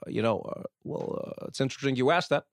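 imitated stalling, hesitant filler; Obama. Interviewer mimicking a guest running out the clock, hesitant filibuster. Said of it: "he can filibuster".

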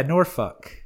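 Norfolk in mock-local accent, said "NOR-fuk". Shown as a demonstration. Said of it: "That's with the accent".

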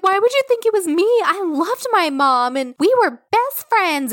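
high, rushed fake crying; mock tearful denial. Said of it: "Let me fake cry".

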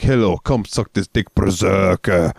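mock Russian accent.

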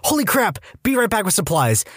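high, hurried alarmed exclamation; alarmed nurse. Retold or imitated. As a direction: blurt it out in alarm.

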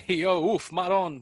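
loud, high burst of New York exclamation; catchphrase outburst. Acted. Mocking own verbal habit, loud catchphrase outburst. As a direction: throw it out big and punchy. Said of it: "doing that nonstop after every sentence".

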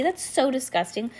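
high-pitched disgust; disgusted cry. A narrator's reading. Girl reacting to the word lice, disgusted exclamation. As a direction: exclaim it, thoroughly grossed out. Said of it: "cried Heidi".

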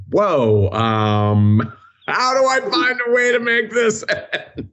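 high, fast panicked thought. Retold or imitated. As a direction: blurt it out in alarm. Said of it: "And I was like".

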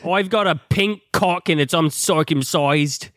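hammed-up Cockney-Australian accent; broad fake British vowels; mock British accent. Continues the accented Bond joke.

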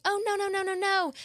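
high-pitched panicked no no no; pleading protest. Retold or imitated. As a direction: plead with them not to do it. Couple protesting being kicked out.

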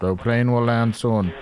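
slow, lightly imitated cockpit announcement; hijacker on the radio. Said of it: "air traffic control channel".

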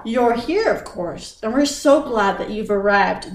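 lightly voiced cheerful British house voice; a hint of a bright butler welcome. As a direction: house AI greets the guest, mild British cheer. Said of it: "the British voice replies cheerfully".

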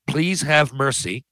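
drawn-out slow begging; slow plea. Shown as a demonstration. Quoting his single audition line, slow plea. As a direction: stretch the plea out slowly. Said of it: "the, the".

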